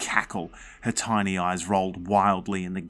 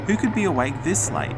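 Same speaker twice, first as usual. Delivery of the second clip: higher, puzzled and curious; wondering aloud; 10 semitones higher, 4 dB louder than usual. A narrator's reading. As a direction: ask it with sleepy surprise. Narrator voices puzzled child.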